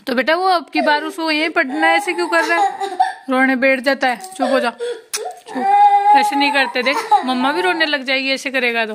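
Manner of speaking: loud, urgent motherly pleading. Real, not acted.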